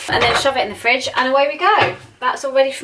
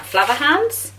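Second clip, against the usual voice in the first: hammed-up Irish accent on the brand name, pitch rising; a bad mock Irish accent, fumbling the name; awful Irish accent; 3 semitones higher, slower than usual. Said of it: "that's a really awful accent".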